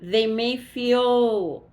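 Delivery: yawning while talking; words stretched by a yawn. Real, not acted. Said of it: "I don't know why I'm starting to yawn".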